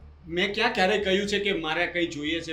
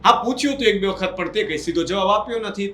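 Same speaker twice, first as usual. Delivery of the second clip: louder, pleading denial to an accusing brother; upset protest; 5 dB louder than usual. Acted. Younger brother protesting the accusation, raised voice. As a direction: push back hard, hurt and indignant. Brothers quarrel over property split.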